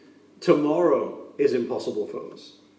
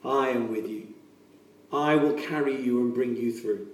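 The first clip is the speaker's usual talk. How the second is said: gentle reassurance; 3 semitones lower, 5 dB quieter than usual. Acted. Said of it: "he says".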